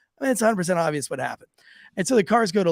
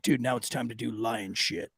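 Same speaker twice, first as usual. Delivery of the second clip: mild retold prisoner voice; 7 semitones lower, 9 dB quieter than usual. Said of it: "they're like".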